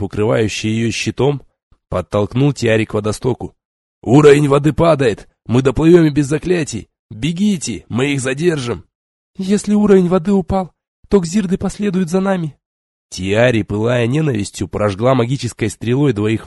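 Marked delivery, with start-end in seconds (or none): 4.0-8.8 loud urgent soldier cry; battle shout. Acted. 9.4-12.6 put-on high, urgent young woman; young sorceress voice. Tiari retorts.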